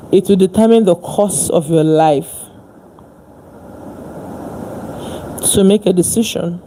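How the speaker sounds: fired-up motivational speech. Real, not acted. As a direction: push it out loud like a preacher. Passionate motivational build.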